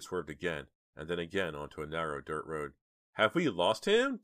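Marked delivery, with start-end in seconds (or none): 3.1-4.2 high, slow anxious question; high-pitched, drawn-out worry; weak cry. A narrator's reading. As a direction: cry it out slowly, pitch raised. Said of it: "Jade cried, sounding weak".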